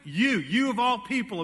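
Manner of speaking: "you" stressed, repeated; emphatic you. Shown as a demonstration. Preacher telling believers they are salt, emphatic "you". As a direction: press hard on "you". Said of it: "it's an emphatic statement".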